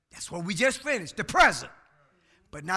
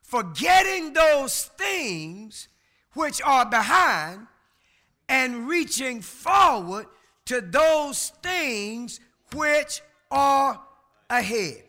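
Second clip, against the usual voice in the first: preaching the verse; slower than usual. Acted. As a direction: proclaim each phrase to the congregation. Preacher reading the verse aloud.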